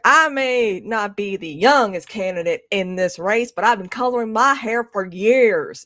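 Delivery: slow, emphatic put-on Southern accent; mock a candidate's drawn-out Southern accent; imitating Hillary Clinton's Southern accent. Quoting a candidate campaigning in South Carolina, fake Southern accent. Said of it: "when she came to South Carolina, she's like".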